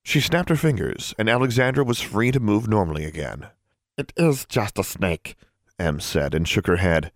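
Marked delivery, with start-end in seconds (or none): 4.0-5.4 relieved. Acted. Elf relieved, softer.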